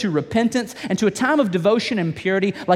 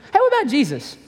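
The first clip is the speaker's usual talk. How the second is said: calling out; 7 semitones higher than usual. Real, not acted. Preacher calls out.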